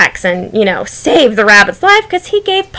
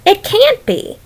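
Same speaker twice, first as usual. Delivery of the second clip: imitating doubtful romantics; 3 semitones higher than usual. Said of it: "some of you romantics are thinking".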